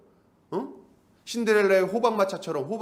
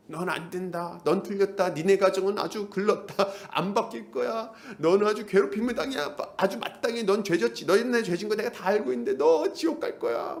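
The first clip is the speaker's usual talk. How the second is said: lightly voiced devil, pitched up; accusing devil; 3 semitones higher than usual. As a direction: pile up accusations without letting up. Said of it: "마귀가 우리 안에서 계속해서 이런 메시지를 던지고". (쉴 새 없이 참소하는 마귀 말투)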